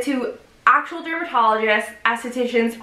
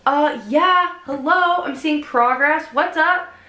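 sing-song reply; 4 semitones higher, slower than usual. Retold or imitated. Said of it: "I'm like".

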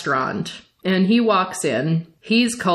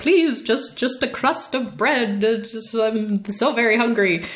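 pleading; 3 semitones higher than usual. Retold or imitated. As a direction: imitate a halting plea for a crust. Voicing hungry man begging for food.

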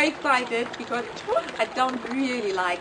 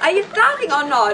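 impatient call; 3 semitones higher, 6 dB louder, faster than usual. Real, not acted. Impatient waiting for the bucket.

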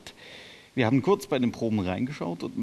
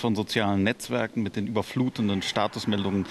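put-on grumpy old man. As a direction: lightly grumble like a grouchy grandpa. Presenter rants about today's youth.

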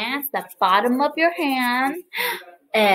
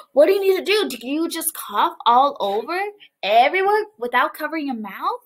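mock shocked question; 3 semitones higher, faster than usual. Teacher quizzing kids.

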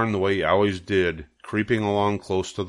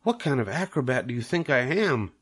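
a touch higher, fed-up spider; disgusted; 5 semitones higher than usual. Acted. Charlotte scoffing at the goose's spelling, disgusted. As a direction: scoff at the idea. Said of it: "said Charlotte in disgust".

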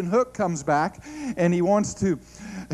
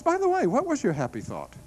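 calm question; 8 semitones higher than usual. Retold or imitated. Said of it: "wife just very calmly says".

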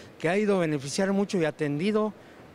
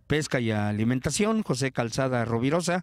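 news voice-over. Acted. Voice-over report after the interview.

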